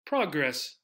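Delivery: PROG-ress, falling from the first syllable; first-syllable stress. Shown as a demonstration. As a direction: hit "prog" in progress.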